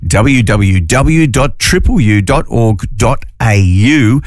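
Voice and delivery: spelled out slowly and deliberately. Shown as a demonstration. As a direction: repeat the web address slowly so listeners catch it. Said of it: "I'll say it again".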